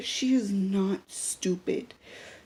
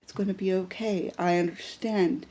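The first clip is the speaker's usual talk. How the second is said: reassuring. Retold or imitated. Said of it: "and I go".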